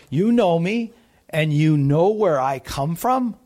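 lightly sarcastic, lifting at the end; hint of mock agreement, as if questioning their claim. Jesus answering doubters in the temple, lightly sarcastic. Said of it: "he's saying that in a sarcastic way".

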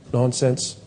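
normal talking voice

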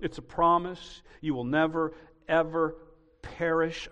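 ordinary delivery

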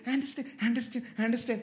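mock customer-service rote sympathy; casual, cold mimicry. Customer service to annoyed caller, imitated casual coldness. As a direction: reel it off like empty words, imitating an agent. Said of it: "very casually, coldly, they say".

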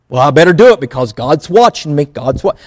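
quick, nervous self-talk; a fretful believer muttering to himself; mock anxious believer. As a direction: hurry like someone afraid of being caught.

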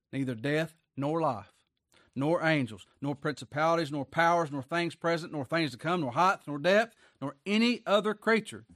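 rising preacher's list; emphatic, mounting Bible recitation; scripture reading. Acted. Reads scripture aloud to congregation.

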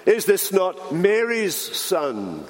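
slow, sly question about Mary's son; insinuating. Shown as a demonstration. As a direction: drag it out with a knowing hint. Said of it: "with a little insinuation".

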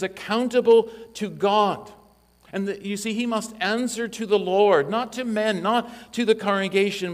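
preaching at full force. Acted. Pastor thundering at elders about shepherding, full-force preaching. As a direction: drive it home like a revival preacher.

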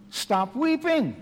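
stern elder's command. Retold or imitated. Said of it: "elder telling me".

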